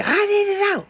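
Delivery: lightly voiced helpless excuse; mock plea. Imitating someone after crossing over, a lightly voiced high plea. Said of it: "you gonna sit up and say".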